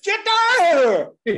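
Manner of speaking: throwing an intruder off the stage, furious shout. Retold or imitated. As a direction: roar at him to get off the bandstand. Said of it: "And I do one of these".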